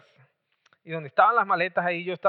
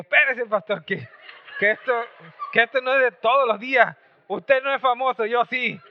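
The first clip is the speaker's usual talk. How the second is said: raised-pitch comic self-importance; mock boastful protest; 4 semitones higher than usual. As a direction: hold the pastor off, playfully showing off. Mock bragging protest to pastor.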